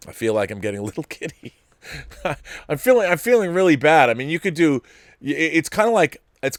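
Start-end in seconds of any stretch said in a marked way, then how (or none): 0.1-1.5 giddy. Real, not acted.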